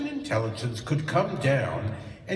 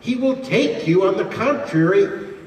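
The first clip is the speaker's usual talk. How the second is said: loud oratory; 5 dB louder than usual. Real, not acted. Orator drives his point home.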